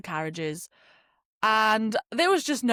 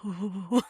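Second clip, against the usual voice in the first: shivery "hoo" noise; imitated shiver. Traveller mimicking everyone freezing in the waiting room, mock shivering. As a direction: mimic shivering with a rising "ooh".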